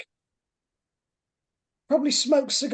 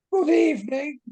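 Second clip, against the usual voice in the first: bright posh British Good evening; lightly played flamboyant British millionaire; posh British accent; 4 semitones higher than usual. Shown as a demonstration. Professor greets the guests in a bright posh British voice. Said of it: "bright, blessed sort of voice".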